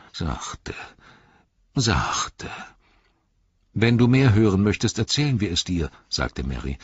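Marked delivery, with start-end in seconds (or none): 0.1-0.8 whispered Sachte. Acted. Ent repeats his calming word. 1.7-2.5 sachte said higher with a falling tune; higher repeat. Acted. Ent repeats his calming word. 3.7-5.9 high, fast, louder hobbit voice; a bright hobbit offer; eager hobbit. Acted. Hobbit Merry speaks to the Ent.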